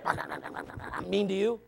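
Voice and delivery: a sulky, dragged-out mock grievance; mock sulky complaint. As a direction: pout it out like a hurt child. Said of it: "Did you hear".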